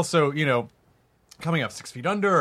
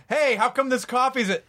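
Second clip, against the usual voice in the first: higher-pitched pretend grumble; mock complaint; 7 semitones higher than usual. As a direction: imitate a petty on-set complaint. Imagined petty complaint on set.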